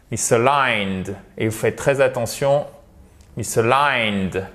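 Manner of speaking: misaligned with stress on a long final "LINED"; final-syllable stress. Shown as a demonstration. English teacher warns learners about word stress, final-syllable stress. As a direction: lean on the last syllable of misaligned. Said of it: "l'accent tonique est sur la dernière syllabe".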